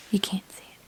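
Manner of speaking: breathy whisper, checking if the camera sees it; hushed camera check. Real, not acted. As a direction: whisper it so no one else hears.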